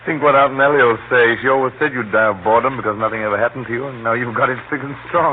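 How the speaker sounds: loud, gleeful ribbing; gleeful laughing tease; amused teasing. Acted. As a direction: tease the uncle, relishing the joke. Nephew teases his uncle, amused.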